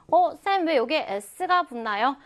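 lightly acted pupil interrupting to ask; puzzled student. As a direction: pipe up with a student's question. Voices a student's question to teacher.

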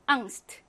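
앙스트 with a short quick a; short vowel. Shown as a demonstration. Teacher showing the short vowel rule, short a in 앙스트. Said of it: "짧게".

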